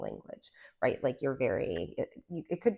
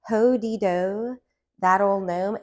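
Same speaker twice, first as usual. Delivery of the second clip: gnome voice; 4 semitones higher, 8 dB louder, slower than usual. Pretend. Mimicking rhyming gnome card.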